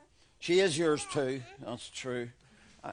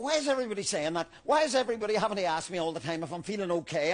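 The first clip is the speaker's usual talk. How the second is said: defensive rant; faster than usual. Acted. Defensive outburst.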